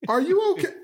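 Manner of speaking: high, amused mock concern. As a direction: ask it with laughing disbelief.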